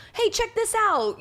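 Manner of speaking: high, slow show-off call; clip poster. Retold or imitated. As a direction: imitate a gamer calling friends to look. Voices someone posting a clip.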